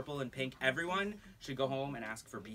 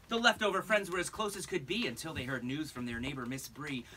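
lilting rhymed read-aloud; singsong picture-book reading; storybook narration. Acted. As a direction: read it to a room of kids.

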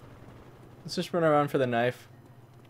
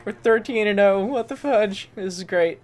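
louder and higher, pumped up; excited; 8 semitones higher, 7 dB louder than usual. Real, not acted. Streamer celebrating thirteen kills, no deaths, excited.

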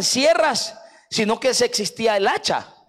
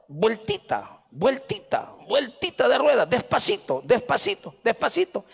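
inch forward word by word, gently; creeping along. Retold or imitated. Mimics traffic creeping forward bit by bit.

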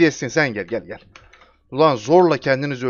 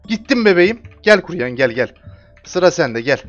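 loud, high taunting calls; loud, high taunt: come on, come on; taunting shout; 3 semitones higher, 6 dB louder than usual. Real, not acted. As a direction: yell at the enemy to come get it. Taunting enemies loudly in game.

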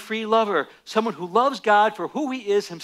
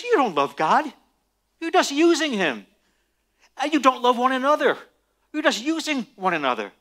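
cynical Satan; 5 semitones higher than usual. Acted. Preacher voicing Satan mocking believers, sneering. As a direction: play the accuser, scornful and cutting. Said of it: "Satan is the ultimate cynic".

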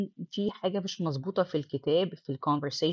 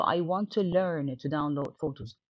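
slow reading; much slower than usual. Shown as a demonstration. Teacher reading the textbook dialogue to students, slow and clear. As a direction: read "do you have a computer to do your homework" slowly and clearly. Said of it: "reads textbook dialogue aloud".

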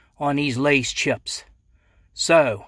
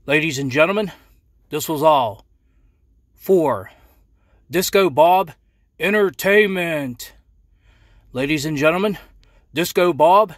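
announcer voice. Acted. Closing show sign-off.

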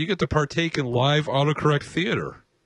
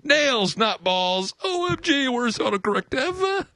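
lightly voiced girly chick, higher; 5 semitones higher, slower than usual. Shown as a demonstration. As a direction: read it as a chick, a touch higher. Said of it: "I don't have to do my chick voice".

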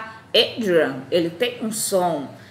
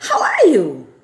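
loud teaching demo; 8 dB louder, slower than usual. Shown as a demonstration. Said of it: "Você responde com a data".

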